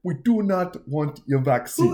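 Nigerian accent, slow and mocking. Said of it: "that might be fucking Ni-, uh, Nigerian".

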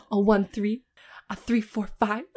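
breathy whispered count. Retold or imitated. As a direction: whisper the numbers. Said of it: "they're like".

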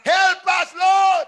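retold cry for help. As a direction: call out to the Lord for help. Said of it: "shouted and cried".

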